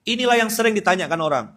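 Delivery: loud, high preacher's call; full-force preaching. Acted. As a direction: drive the point home to the crowd.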